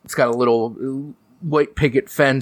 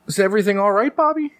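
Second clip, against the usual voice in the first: dad voice; 9 semitones higher, faster than usual. Acted. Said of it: "and he says".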